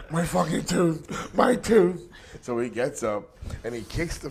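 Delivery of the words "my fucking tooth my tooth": loud, high, slow cry of pain; imitated hurt friend howling; mock pained wail. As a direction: wail over an injury, hamming it up. Imitating injured friend on the ground.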